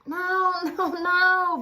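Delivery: very high, loud annoyed shout. A narrator's reading. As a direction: stop him in exasperation. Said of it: "Boris shouted".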